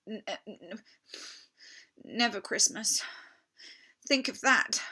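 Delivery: a timid faun's high, halting confession; shamefaced fawn. Acted. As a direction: own up to your guilt, stammering. Tumnus describing the White Witch.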